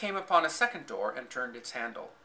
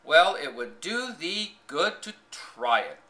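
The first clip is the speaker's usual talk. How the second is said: slow, louder Yorkshire declaration; declaring; 3 semitones higher, 6 dB louder, slower than usual. A narrator's reading. Maid retorting to the girl, firm declaration. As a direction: state it firmly, a touch tart. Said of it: "declared the young maid".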